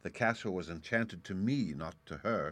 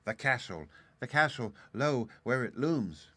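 breathless whisper; 3 semitones higher, 3 dB louder than usual. A narrator's reading. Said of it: "said in a panting whisper".

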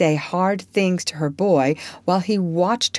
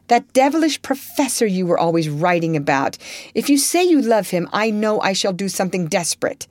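jealous rage; 3 semitones higher than usual. Acted. Laurie jealous threat.

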